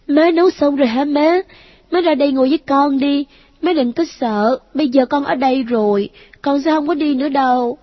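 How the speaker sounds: put-on high, bright little boy voice, eager; a dead boy happily greeting his mom; cheerful child. A narrator's reading. Boy greets his mother joyfully, high child voice. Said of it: "tiếng nói reo vui".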